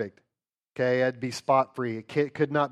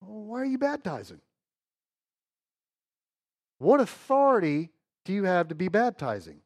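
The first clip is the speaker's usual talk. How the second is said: questioning Jews; 4 semitones higher than usual. Acted. Jews questioning John voiced.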